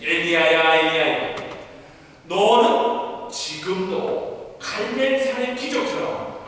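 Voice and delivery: loud calling of the name Elijah; Jesus calling out. Acted. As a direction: summon Elijah across a crowd. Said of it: "예수님".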